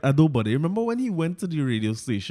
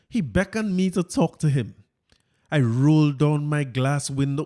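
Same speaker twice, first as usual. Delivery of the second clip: Fitz voice. Retold or imitated. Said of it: "let me get my Fitz voice here".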